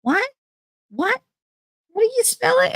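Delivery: high, loud calling voice; grandma hard of hearing. Retold or imitated. Grandmother at sink can't hear mother, imitated high hollering. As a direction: holler high over the noise. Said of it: "And she goes".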